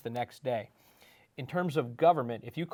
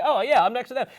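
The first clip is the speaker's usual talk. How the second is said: voicing a local kid; 11 semitones higher, 11 dB louder, faster than usual. Mayor voices a kid's answer.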